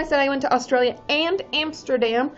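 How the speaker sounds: talking through a yawn; words stretched by a yawn. Real, not acted. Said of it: "Sorry, I yawned".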